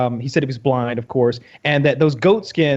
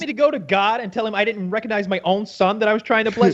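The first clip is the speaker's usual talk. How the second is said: higher, incredulous mock protest; indignant refusal; 4 semitones higher than usual. Father refusing to go ask God, indignant. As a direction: play an exasperated father refusing outright.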